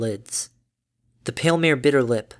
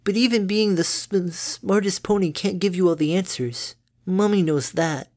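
calm; 6 semitones higher than usual. Acted. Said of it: "calmly produced".

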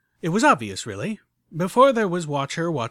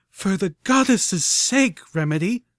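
slow, higher, louder barked rebuke; 7 semitones higher, 7 dB louder, slower than usual. A narrator's reading. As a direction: bark her name in anger. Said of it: "I barked".

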